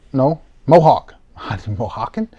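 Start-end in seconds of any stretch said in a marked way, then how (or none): 1.4-2.3 Mohican said through a laugh, softer and rising; laughing at own slip. Real, not acted. Breaker laughing as he fumbles the word again. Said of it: "I can't even speak".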